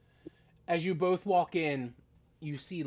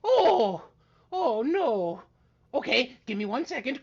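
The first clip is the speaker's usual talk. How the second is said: surprised wizard; 7 semitones higher, 5 dB louder than usual. Acted. Wizard trick fails.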